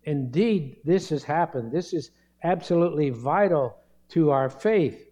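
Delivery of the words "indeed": "indeed" said firmly with a falling close; emphatic, conclusive "indeed"; stress on indeed. Shown as a demonstration. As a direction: land hard on the second syllable of "indeed". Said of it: "I stress that word indeed".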